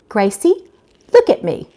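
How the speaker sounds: a mild, firm command; a hint of a stern order. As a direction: tell her, don't ask her. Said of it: "more of a command than a request".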